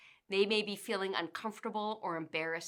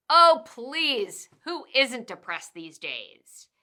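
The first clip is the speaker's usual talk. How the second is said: much louder, higher scoffing "Oh, please", then slow; dismissive manager; 3 semitones higher, 8 dB louder, slower than usual. Acted. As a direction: brush off the worry with a scoff. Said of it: "Minimizing them".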